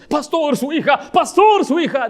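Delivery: loud, high mock call for the pastor; alarmed calling. Church member calling the pastor about his daughter, loud alarm. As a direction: call out urgently across the room. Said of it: "ahí andan llorando".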